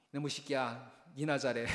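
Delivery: 웃음 섞인 멋쩍은 타박; 눈물 참으며 웃어넘기듯; 웃으며 하는 말. Retold or imitated. 울컥한 아빠가 웃으며 답함. (울컥한 아빠가 아들에게 웃으며 하는 말)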